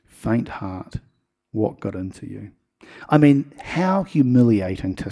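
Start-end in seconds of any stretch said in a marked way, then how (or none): 0.1-2.5 lower, much softer, tender reproach; gentle rebuke. Shown as a demonstration. Jesus lifting the sinking Peter, softly and tenderly. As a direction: say it softly, like a kind correction. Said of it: "Isn't that nice?".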